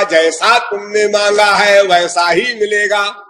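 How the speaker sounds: level, measured pronouncement of a god. Acted. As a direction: grant the boon in an intoned voice. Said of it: "और भगवान ने कहा".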